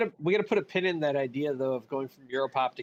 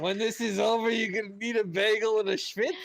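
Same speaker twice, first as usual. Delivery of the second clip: put-on New York Jewish accent; 4 semitones higher than usual. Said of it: "New York Jewish drum and bass M C".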